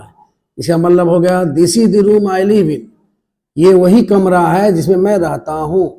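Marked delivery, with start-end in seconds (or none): 1.5-2.8 slow demo with THE said as 'dee'; emphatic THE. Shown as a demonstration. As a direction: stretch the sentence, THE as a clear 'dee'. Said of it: "यानी जोर दिया जा रहा". (THE को 'दी' पढ़ते हुए, धीरे)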